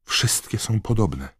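mildly despairing exclamation; despairing cry. A narrator's reading. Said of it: "zawołała z rozpaczą".

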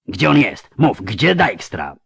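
slow, pressing demand; menacing leader. A narrator's reading. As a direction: squeeze the answer out of him. (herszt natarczywie żąda odpowiedzi, powoli)

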